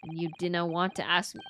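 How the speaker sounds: lightly done Scottish brogue; a hint of a gruff Scottish guard; Scottish accent. Reading the governor's lines in a light Scottish accent. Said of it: "Why does he have an accent?".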